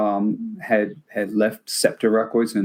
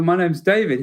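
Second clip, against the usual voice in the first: higher-pitched British self-introduction; British accent; 6 semitones higher than usual. Retold or imitated. Young interviewer introducing himself to George, very British. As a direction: introduce yourself in a raised British voice. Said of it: "In my very then British accent".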